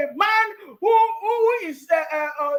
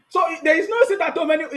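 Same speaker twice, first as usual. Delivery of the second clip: mocking shout; 2 semitones higher, faster than usual. Mocking the changed slogan.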